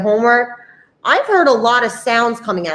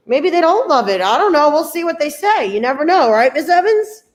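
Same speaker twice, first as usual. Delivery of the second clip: higher-pitched, teasing aside to a co-host; playful doubt; 5 semitones higher than usual. Real, not acted. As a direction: joke that nobody can be sure, pitched up. Host jokes with her co-host.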